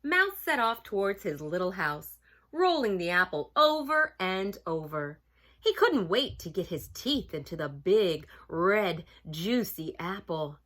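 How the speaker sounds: put-on animated storybook reading for children; story narration. A narrator's reading. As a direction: read it aloud to children, savoring key words.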